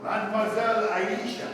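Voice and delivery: lightly voiced guide; Arab guide disguise. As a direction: greet her as a humble guide. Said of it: "adopted the disguise of an Arab guide".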